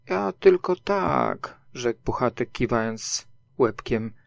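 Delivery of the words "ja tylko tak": higher, drawn-out reply; a hint of a small bear, slow and higher; lightly voiced Pooh. A narrator's reading. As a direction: say it slowly, lifted in pitch. Pooh's reply voiced in story.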